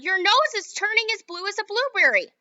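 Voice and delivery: mother screams as Violet turns blue; screaming mother. Acted. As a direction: draw the scream out in horror.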